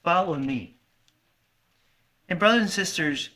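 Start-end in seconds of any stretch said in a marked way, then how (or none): 0.0-0.8 lower, much softer solemn quote; soft words of Jesus. Retold or imitated. Preacher quoting Jesus' call, hushed.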